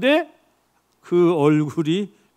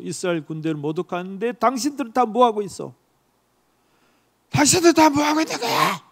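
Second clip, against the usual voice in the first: indignant outburst. Acted. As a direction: rebuke the cowards in outrage. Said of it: "분노가 침을 참을 수가 없어요". (분개하며 꾸짖듯)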